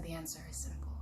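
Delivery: whispered, hushed elder; hushed wise elder; secret whisper. Acted. Elder speaks secretly to brothers.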